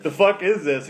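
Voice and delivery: can't believe the order; disbelief. Real, not acted. Podcaster baffled by a weird drink order, incredulous outburst.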